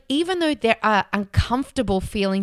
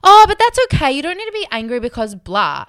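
much higher, louder brushing-off "oh"; dismissive parent; 7 semitones higher, 7 dB louder than usual. Retold or imitated. Parent dismissing child's anger, brushing off. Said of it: "they'll be like".

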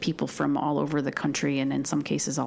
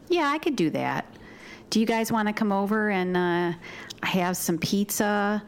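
slow upstate New York drawl; upstate New York accent. Shown as a demonstration. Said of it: "my upstate New York accent".

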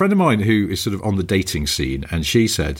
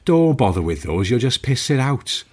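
put-on Welsh accent; 5 semitones higher than usual. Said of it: "I'm gonna do the accent".

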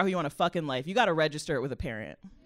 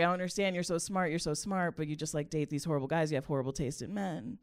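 mom's quiet lament; 8 dB quieter than usual. Retold or imitated. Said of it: "my mom, she would just kinda be like".

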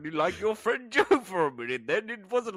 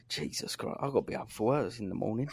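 1 fed-up spectator; 6 semitones lower, 6 dB quieter, faster than usual. Retold or imitated.

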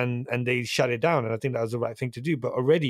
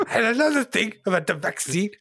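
high, hissed mock whisper-yell; angry whisper; 10 semitones higher, 4 dB louder than usual. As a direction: imitate a friend's angry whispering. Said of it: "angry whisper".

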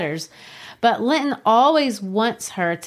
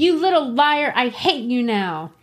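put-on angry girl; 5 semitones higher than usual. Kathy angry at Linton.

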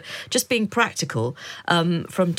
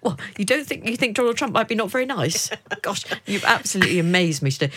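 mock astonishment; 4 semitones higher than usual. Feigned shock at Trump remark.

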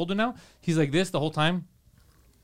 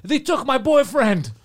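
slow, high, louder mock wail; mock desperate yell; 7 semitones higher, 5 dB louder, slower than usual. Man begging the Power Rangers, slow high mock yell. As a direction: drag out the desperate plea. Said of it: "This guy's yelling".

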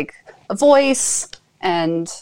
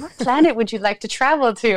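higher, dreamy psychic voice; mock mystical; 5 semitones higher than usual. Shown as a demonstration. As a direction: ask it like a hotline psychic. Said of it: "in my psychic voice".

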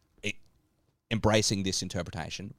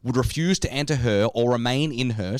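formal reading. Shown as a demonstration. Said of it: "I just wanna read this part again".

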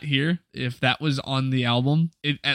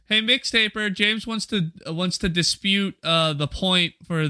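higher-pitched casual summons; calling someone back; 6 semitones higher than usual. Pretend. Host luring the mixtaper back for a surprise, calling out. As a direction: call him in innocently, pitched up.

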